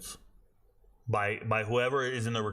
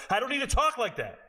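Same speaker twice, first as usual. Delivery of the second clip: exasperated outburst; 13 semitones higher, 4 dB louder than usual. Real, not acted. Host rejecting film-channel jargon, exasperated high outburst. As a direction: voice jumps high in real irritation.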